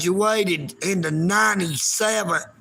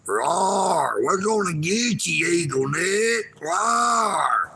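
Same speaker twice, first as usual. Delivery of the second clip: mock monster roar. Mocking trolls as monsters.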